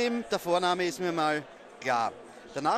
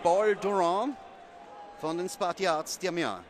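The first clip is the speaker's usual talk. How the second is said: broken French. Real, not acted. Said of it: "wie ich die Herren ausspreche".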